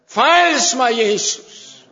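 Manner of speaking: loud, urgent plea to Jesus; desperate cry to Jesus. Retold or imitated. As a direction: call out to be saved. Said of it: "der råbte jeg til Jesus".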